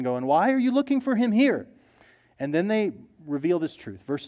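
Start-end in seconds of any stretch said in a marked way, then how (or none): 0.3-1.7 a higher, incredulous why; exasperated angels. Acted. Angels questioning the women at the tomb, higher and exasperated. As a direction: push the question up in disbelief. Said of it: "they ask this exasperated question".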